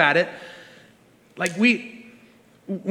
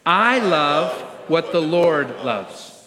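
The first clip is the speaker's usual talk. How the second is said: slow, measured recitation; leading in unison; 3 semitones lower, much slower than usual. Real, not acted. Pastor asking believers to say it with him, slow and deliberate. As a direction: space the words out for a room to join. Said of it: "would you say that with me?".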